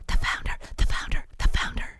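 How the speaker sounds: whispered chant of the founder; excited whisper. Acted. Trolls whispering as the founder arrives, excited whisper. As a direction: hiss it in awe. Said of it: "trolls whisper in excitement".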